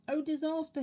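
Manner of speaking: high, loud terrified cry; frightened scream. A narrator's reading. Mister Jelly waking to the tramp's face, high loud scream. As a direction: scream it in panic. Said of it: "he screamed".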